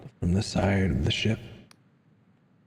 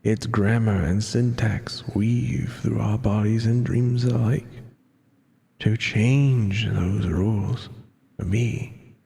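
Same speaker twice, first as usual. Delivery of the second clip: lightly voiced weary narrator, worn down; tired and withered voice. Player voicing the game's narrator, lightly tired and withered. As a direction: tell it like a spent old spirit. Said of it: "trying to do, like, a tired and withered voice for it".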